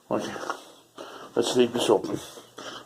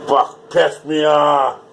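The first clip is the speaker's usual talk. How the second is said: annoyed cursing; 3 semitones higher, 6 dB louder, much slower than usual. Real, not acted. Real frustration at mess.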